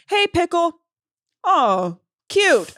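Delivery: high, sweet voice for a cat; a man talking to his cat in a high, cooing voice. Retold or imitated. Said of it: "He'll go like".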